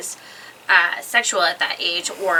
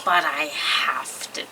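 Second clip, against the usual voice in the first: softer, slow, lower reluctant tone; regretful teacher; 4 semitones lower, 7 dB quieter, slower than usual. Retold or imitated. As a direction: break it to her gently. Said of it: "and she's like".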